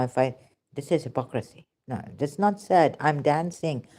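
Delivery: ordinary talk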